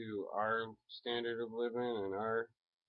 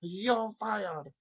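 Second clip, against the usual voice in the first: much higher and louder, over-the-top Trump; Trump impression; 12 semitones higher, 7 dB louder than usual. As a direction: belt it out as a cartoon Trump. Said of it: "do a Trump impersonation".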